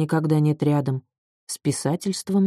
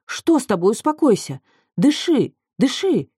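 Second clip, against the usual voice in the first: urgent pleading; 6 semitones higher than usual. A narrator's reading. Calming a sobbing friend on phone.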